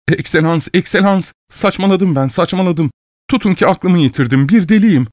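high, rising frantic plea; panicked pleading. A narrator's reading. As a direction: beg in a panic. (telaşlı, yüksek sesli yalvarış)

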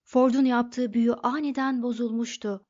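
plain reading voice

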